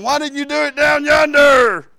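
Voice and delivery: high, loud complaining shout; frustrated cry to God. Retold or imitated. Preacher voicing his old complaint to God, loud and high. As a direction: call out the question to heaven in frustration. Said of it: "and I'm thinking".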